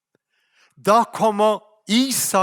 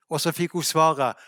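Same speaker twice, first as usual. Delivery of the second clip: usual speaking voice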